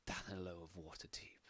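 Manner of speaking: soft, hissed malice; Queen whispering venom at an old enemy; malicious whisper. Acted. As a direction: breathe his name with hatred. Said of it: "says those words with absolute malice".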